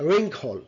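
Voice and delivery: "wrinkle" as REN-khol, w silent; modelled pronunciation. Shown as a demonstration. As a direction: say "wrinkle" with a rounded r and airy k. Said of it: "it's a".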